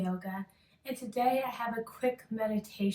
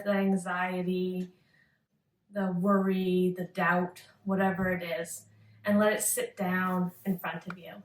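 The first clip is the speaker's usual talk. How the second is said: unhurried meditation guidance with long pauses; calm yoga-teacher meditation voice; guided meditation. Acted. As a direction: lead a listener gently into focus, pausing between phrases.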